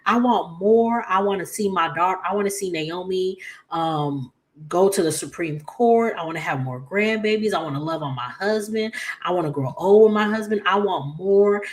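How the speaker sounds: a hint of Anita's plea; Anita's outburst. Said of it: "She was just like".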